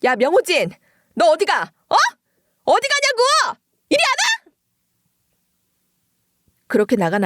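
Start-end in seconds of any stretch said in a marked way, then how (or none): 0.0-4.5 much higher shrill call after him; yelling after him. Acted. Mother calling after son storming out, yelling. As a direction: yell him back from the door.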